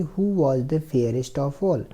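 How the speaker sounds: slow, careful reading of the English passage; slow reading aloud. Shown as a demonstration. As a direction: read each word slowly for the class. Teacher reads question slowly. (धीमी आवाज़ में अंग्रेज़ी पढ़ना)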